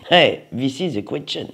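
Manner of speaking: a light mock English accent; French speaker's hammed-up English accent. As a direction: toss off the line in a playful put-on English accent. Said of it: "j'ai sorti mon plus beau, bel accent anglais".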